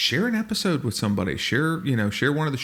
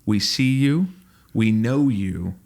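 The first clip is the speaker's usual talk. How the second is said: mock pep talk. Friend reassuring Will before the fight, mock caring voice. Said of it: "you'd be like".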